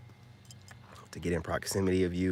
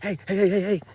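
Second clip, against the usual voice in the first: high, loud mock call of hey; excited mock shout from the car; 11 semitones higher, 5 dB louder than usual. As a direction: imitate a woman hollering after you. Women calling out to him.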